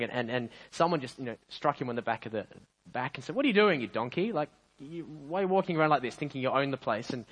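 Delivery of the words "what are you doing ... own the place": acted telling-off, slightly raised; lightly indignant challenge; mild scolding. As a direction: mildly put out, rebuking a show-off. Passer-by scolds the donkey after striking it.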